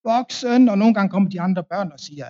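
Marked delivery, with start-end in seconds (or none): 0.1-0.6 high, loud call for a grown-up; child shouting. Retold or imitated. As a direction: yell for help like a stuck little boy. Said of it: "der står der og råber". (barn der råber højt)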